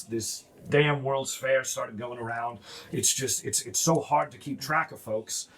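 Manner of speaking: lightly voiced low, weary dwarf; a hint of a gruff, frazzled dwarf. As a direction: grumble like a tired overworked dwarf. He's a kind of gruff guy.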